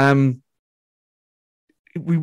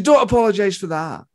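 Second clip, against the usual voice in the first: slightly raised, lightly imitated famous comedian; Billy Connolly; 4 semitones higher than usual. Famous comedian reassuring a younger comic, lightly imitated. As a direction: reassure with a hint of his voice. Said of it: "he goes".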